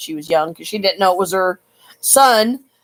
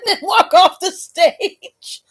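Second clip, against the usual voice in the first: high, slow, breathy giggling aside; whispered giggle; 11 semitones higher, much slower than usual. Real, not acted. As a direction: giggle it under your breath.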